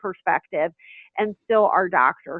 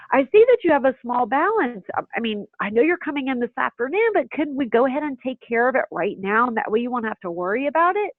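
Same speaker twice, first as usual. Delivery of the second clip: pleasantly; 3 semitones higher, faster than usual. Shown as a demonstration. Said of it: "very pleasantly".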